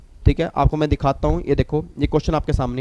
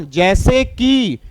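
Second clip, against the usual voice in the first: loud, very slow drawn-out shout; sudden yell; 3 semitones higher, 4 dB louder, much slower than usual. Retold or imitated. Teacher shouting to wake dozing students, drawn out loud. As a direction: jolt the sleepy kids awake. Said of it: "जैसे मैंने ऐसे बोला ना".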